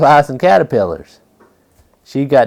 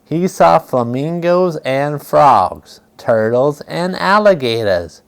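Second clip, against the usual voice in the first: put-on reading to children; 2 semitones higher than usual. A narrator's reading. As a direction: read it out gently to little listeners. Reading picture book aloud.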